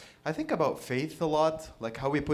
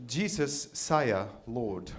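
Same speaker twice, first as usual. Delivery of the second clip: lightly put-on British accent; mock British accent; 2 semitones lower, much slower than usual. Disciples addressing Jesus, mock British accent. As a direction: give it a hint of British. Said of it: "I don't know if they were British".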